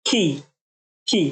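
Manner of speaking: isolated খি said slowly and clearly; demo sound. Shown as a demonstration. Teacher demonstrating খি to students, clearly enunciated. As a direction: sound out খি as a single syllable. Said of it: "এগুলোর sound হলো খি".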